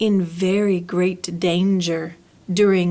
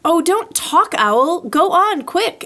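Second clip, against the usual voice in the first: higher, louder impatient urging; urgent hurry; 8 semitones higher, 4 dB louder than usual. Acted. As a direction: cut him off and push him to go.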